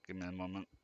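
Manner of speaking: strained mid-stretch voice. Real, not acted. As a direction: speak while stretching. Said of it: "I need to stretch here".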